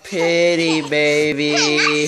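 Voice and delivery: slow, loud hype for her entrance; drawn-out proud dad hype; excited announcing. Real, not acted. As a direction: announce her like a star arriving. Dad hyping daughter's entrance.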